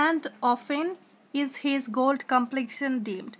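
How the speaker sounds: very slow, syllables drawn out; slow scansion reading. Shown as a demonstration. Teacher scanning the verse aloud for the class, slow. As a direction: let every beat of the verse be heard. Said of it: "তো and often".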